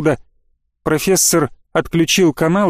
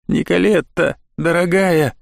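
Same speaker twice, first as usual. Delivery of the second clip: tender. A narrator's reading. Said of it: "с нежностью сказал профессор".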